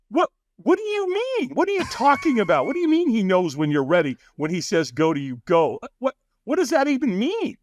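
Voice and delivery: mock bewildered squeak; baffled. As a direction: stammer out total bewilderment. Baffled reply to stranger.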